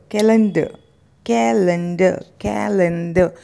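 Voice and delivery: कैलेंडर as KA-lun-duh with silent R; correct pronunciation. Shown as a demonstration. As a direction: repeat कैलेंडर for practice, R dropped. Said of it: "आर को यहाँ पे आपको silent". (कैलेंडर का सही उच्चारण, र silent)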